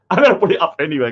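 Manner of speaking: rushed, through a chuckle; laughing. Real, not acted. Streamer giggles to chat about posting fake art, laughing. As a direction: laugh it out quickly.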